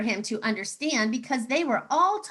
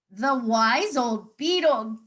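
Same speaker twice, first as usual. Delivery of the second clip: gasped; 4 dB louder, slower than usual. Acted. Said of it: "gasped all the animals".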